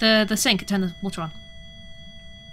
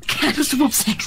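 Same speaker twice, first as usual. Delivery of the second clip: whisper; 2 semitones higher, slower than usual. Pretend. Whispered joke line.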